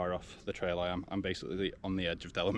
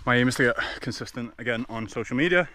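while running. Real, not acted. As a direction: keep talking as you run. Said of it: "running at a five twenty pace".

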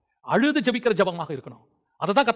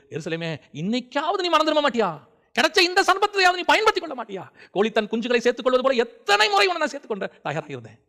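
Jesus' broken lament; 7 semitones higher, 4 dB louder than usual. Acted. Preacher voices Jesus weeping over Jerusalem, impassioned lament. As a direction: plead with a wayward people as if heartbroken. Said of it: "அவரே ஒரு இடத்துல உடைஞ்சு அழுகுறாரு".

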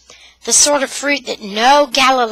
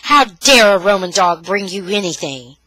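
angry shout; 6 dB louder than usual. Acted. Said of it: "he shouted".

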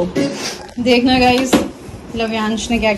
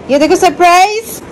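higher-pitched aunty coaxing a crying nephew; 4 semitones higher than usual. Real, not acted.

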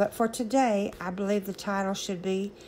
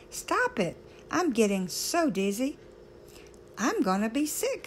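mild mock scream; 2 semitones higher than usual. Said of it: "I screamed".

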